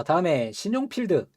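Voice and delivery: ordinary talk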